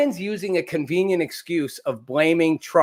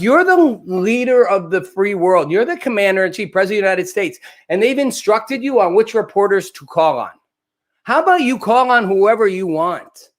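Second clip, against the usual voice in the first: indignant retort; 4 semitones higher than usual. Retold or imitated. Retort to Biden in his head.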